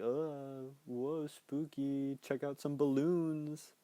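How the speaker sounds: slow, drawn-out mock spooky voice; Pennywise. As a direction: stretch the words out, teasingly spooky. Imitates Pennywise taunting with spookiness.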